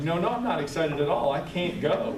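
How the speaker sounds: quick, a bit loud panicked denial; flustered husband. Retold or imitated. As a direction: blurt it out like a trapped husband. Husband's panicked protest voiced.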